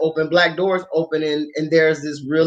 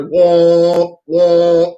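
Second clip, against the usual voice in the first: imitated womp sound; 2 semitones lower, 6 dB louder than usual. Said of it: "the sound that goes off".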